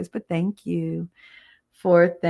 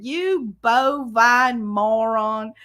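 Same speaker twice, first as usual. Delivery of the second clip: mock road rage; 4 semitones higher, much slower than usual. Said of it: "put her head out the window and said".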